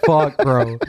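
slow, drawn-out incredulity; retold reaction, dragged out in disbelief; stunned disbelief. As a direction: stretch out WHAT in mock amazement. Acted stunned reaction amid laughter.

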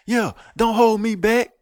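high, loud and slow fake bluster. Mocking a fake tough guy.

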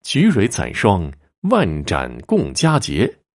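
slow, drawn-out verse reply; reciting a couplet. A narrator's reading. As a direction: recite each phrase slowly and deliberately. Completes the couplet aloud.

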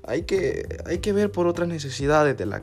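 half-hearted sorrowful pleading; fake sad story. Student faking family hardship to the coordinator, softly sad.

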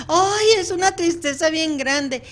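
mock sad client. Client quoted in session.

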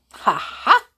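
loud, high spoken ha-ha; gloating pixie laugh. A narrator's reading. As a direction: crow it triumphantly. Pixie gloats over magic.

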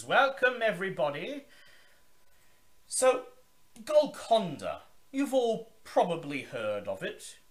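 high, loud, grand vampire host's welcome; Zachary Forge. Acted. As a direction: boom it out like a theatrical old vampire. Zachary's grand speech to guests.

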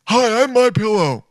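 chirpy ad intro, imitated; pitchman impression. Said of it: "let's watch the weirdest one".

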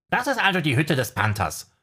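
a high, lightly voiced little owl. A narrator's reading. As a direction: play the owl as a cheeky bird.

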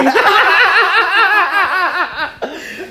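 long, loud, high-pitched laughter; big laugh. Real, not acted. Cracking up with the host over newfound fame, loud laughter. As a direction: burst out laughing and keep going.

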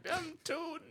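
high, laughing slow quote. Retold or imitated. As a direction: say it through laughter. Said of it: "I thought you were gonna be like".

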